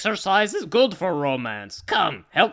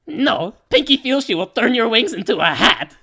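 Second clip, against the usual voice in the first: a sudden loud, higher burst of villainy; loud outburst; 5 semitones higher, 5 dB louder than usual. Acted. Pinky answering Dash's guess with a loud gleeful threat. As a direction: snap back with a loud evil threat.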